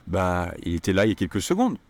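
vague, noncommittal shrug; hesitant offhand French; unsure bah. Shown as a demonstration. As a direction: say it like you're not really sure. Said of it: "The feeling of that is, "Yeah, well, according to me".

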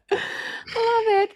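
drawn-out delight. Real, not acted. Repeated praise, second take stretched.

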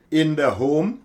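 "In" leaned on, rising into "the home"; stress on IN. Shown as a demonstration. Preacher to congregation, stressing "In". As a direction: press on "In" before "the home". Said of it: "Here we place the emphasis on the word in".

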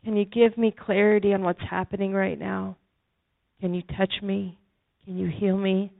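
hushed inner plea to Jesus; silent prayer. Retold or imitated. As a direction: pray it as if only in your head. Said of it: "in my head".

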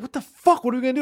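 high, alarmed outburst; panicked players. Pretend. Team left without a quarterback, panicking high. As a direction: players freak out together.

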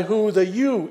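"you" lifted high and held; stress on you. Shown as a demonstration. Pastor singling out the word "you" for the congregation. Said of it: "The pronoun is plural".

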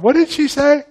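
loud, high-pitched mock bewilderment; baffled. Parent can't understand the coach, baffled. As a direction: ask it as if you understood nothing.

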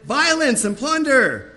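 high, slow shouted warning; prophet's shout. Retold or imitated. Preacher voicing Jeremiah shouting his warning, loud and slow. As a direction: cry it out like a prophet of doom. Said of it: "I shouted".

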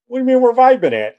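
put-on drunk old man. Drunk father confronts son.

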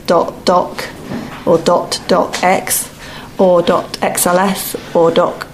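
talking with loose false teeth; words slurred round slipping dentures. Real, not acted. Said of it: "I just had to put my teeth back in".

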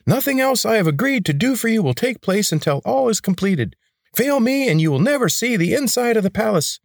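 high grating rebel leader. A narrator's reading. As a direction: bark orders in a high, grating voice.

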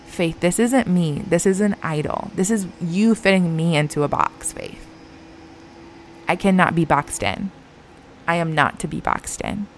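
lightly voiced God, calm and tender; gentle, loving. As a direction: gently correct someone you love. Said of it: "God just gently, ever so lovingly".

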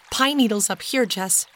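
ordinary delivery, nothing marked

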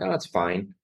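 soft, flat-out resigned; mock resigned shrug; resigned it's fine. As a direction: let it sag, a quiet lie. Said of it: "You're like".

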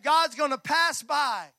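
slow, loud proclamation; booming slow declaration; preaching shout. Acted. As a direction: thunder it from the pulpit. Preaching climax.

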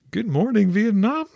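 hammed-up wake-up call; radio DJ catchphrase yell. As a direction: holler it like a morning radio host. Film catchphrase shout-out to Hanoi.

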